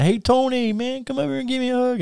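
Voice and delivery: very high mock Russian greeting; Ivan Koloff. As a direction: greet an old friend in a put-on Russian accent. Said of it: "staying in his Russian gimmick voice".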